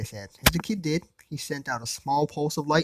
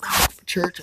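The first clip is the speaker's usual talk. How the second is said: whisper; 5 semitones higher than usual. Acted. Priest introduces himself menacingly.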